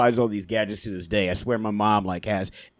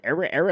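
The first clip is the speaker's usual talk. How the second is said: record scratch imitation; 6 semitones higher, faster than usual. Shown as a demonstration. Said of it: "scratched a reel, like".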